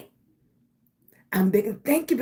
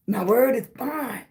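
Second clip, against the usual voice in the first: tearful. Real, not acted. Recalling showing up despite exhaustion.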